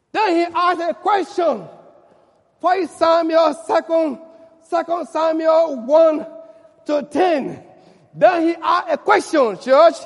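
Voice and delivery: loud, emphatic preaching; preaching at full force. Acted. Preacher calling to the church, loud and emphatic. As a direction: announce the scripture to the church.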